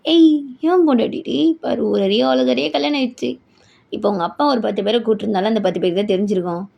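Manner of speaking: gloating husband. Acted. Groom boasting to his bride about the press, gloating. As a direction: rub it in, drawing out the last words.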